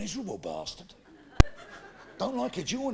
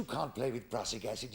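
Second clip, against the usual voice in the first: vicar voice; 11 semitones lower, 9 dB quieter than usual. Acted.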